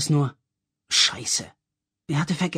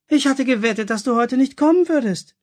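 laughing; 10 semitones higher, 7 dB louder than usual. A narrator's reading. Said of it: "erklärte Fifi lachend".

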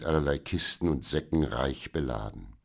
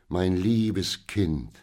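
tender; much slower than usual. Acted. Father greets his rescued daughter.

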